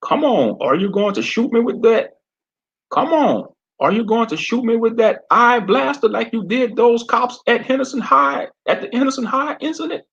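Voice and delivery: southern sheriff daring Fred to use his eye blaster; southern accent. Acted. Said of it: "he spoke in a southern accent".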